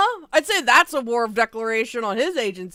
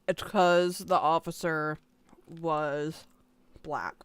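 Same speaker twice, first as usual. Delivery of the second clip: drops softer and lower to a near whisper; fading to a hush; 6 semitones lower, 5 dB quieter, slower than usual. Real, not acted. Streamer repeating the point, fading into a low whisper. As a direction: let it fade to a whisper.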